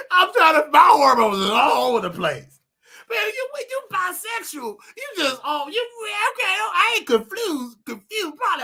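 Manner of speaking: loud, high, laughing through words; laughing hard. Real, not acted. Confessing his hormones to viewers, laughing hard. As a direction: talk through a fit of laughter.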